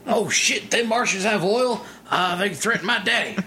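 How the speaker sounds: high, hammed-up hick voice; a mocking hick, greedy for oil; mock redneck oilman. Mock oil-hungry American.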